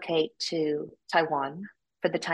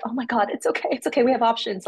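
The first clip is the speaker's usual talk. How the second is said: panicked husband; 6 semitones higher, 4 dB louder, faster than usual. Retold or imitated. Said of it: "he was so freaked out".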